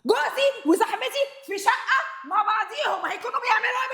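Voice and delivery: angry words through a bitter laugh; wife laughing bitterly at her husband. Acted. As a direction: laugh at the betrayal. Wife repeats accusation laughing.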